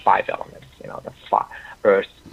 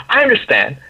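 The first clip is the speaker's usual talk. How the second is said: imitated happy eagerness, higher and louder; raised, eager announcement; excited, very happy; 4 semitones higher, 5 dB louder than usual. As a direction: act out someone pleased to understand. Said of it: "excited or very happy".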